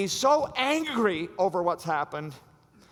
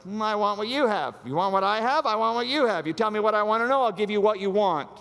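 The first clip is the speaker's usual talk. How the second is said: high, loud teasing coax; mock seductive Delilah; 7 semitones higher, 6 dB louder than usual. Delilah bargaining with Samson, mock seductive high voice. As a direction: tease and bargain with him. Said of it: "She's like".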